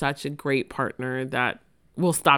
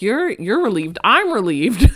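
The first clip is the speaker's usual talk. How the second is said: mock excited dentist; 5 semitones higher, 8 dB louder than usual. Dentist retells his relief.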